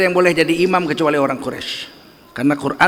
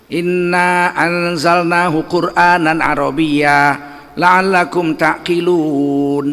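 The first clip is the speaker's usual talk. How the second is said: slow, measured Arabic chant; Quran recitation; much slower than usual. Acted. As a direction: recite the verse slowly and reverently. Verse recited in sermon.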